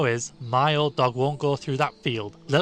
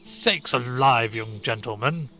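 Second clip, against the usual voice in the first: put-on slow, louder startled old shepherd; 6 dB louder, slower than usual. A narrator's reading. Shepherd startled by Stanley's plan, slow and louder. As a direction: gasp it out, taken aback. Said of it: "in a startled voice".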